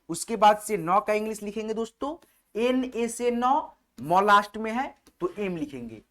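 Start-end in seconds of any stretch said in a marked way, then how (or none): 2.6-3.8 letters spelled out slowly one by one; slow dictation to students; slow spelling. Shown as a demonstration. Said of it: "spelling letters out for students".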